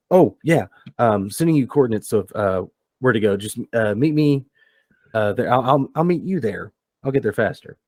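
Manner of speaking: a hint of eager, fidgety Spyglass. Spyglass sending the crew coordinates, lightly eager voice. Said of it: "He goes".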